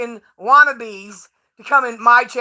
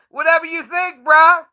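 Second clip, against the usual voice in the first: higher, scoffing brush-off; dismissive; 4 semitones higher than usual. Real, not acted. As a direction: wave him off with a laugh. Dismissive after laughing.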